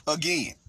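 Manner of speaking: "Again." set off by pauses as its own point; stress on AGAIN. Real, not acted. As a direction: let "Again." stand alone for emphasis. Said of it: "I emphasize the word again".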